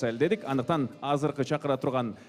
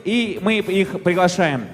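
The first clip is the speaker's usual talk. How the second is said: announcer; 6 semitones higher, 8 dB louder than usual. Acted. Host announcing to guests.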